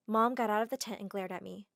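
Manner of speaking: usual speaking voice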